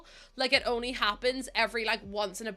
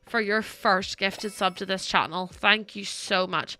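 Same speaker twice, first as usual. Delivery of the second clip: awed slow thanks; 3 dB louder, much slower than usual. Real, not acted. Stunned by a big donation.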